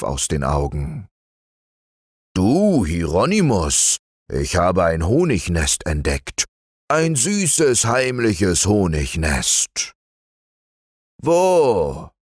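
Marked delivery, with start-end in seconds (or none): 2.3-9.9 lightly raised eager bear voice; Basilius the bear. Acted. Basilius lures his cousin to the honey, eager. 11.2-12.1 high, squeaky "Wo?"; a sudden eager bear yelp; Hieronymus the bear. Acted. Bear cousin perks up at honey news, squeaky. Hieronymus voiced, one word.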